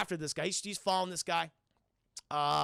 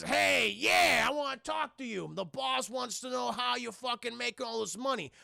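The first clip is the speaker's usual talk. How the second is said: thug yelling; 5 semitones higher than usual. Retold or imitated. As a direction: bark it at him like hired muscle. And he goes (shout).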